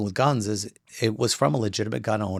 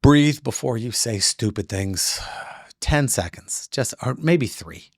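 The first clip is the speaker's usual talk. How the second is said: calm advice; slower than usual. Shown as a demonstration. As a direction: ease them into breathing. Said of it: "This is a lesson, everyone".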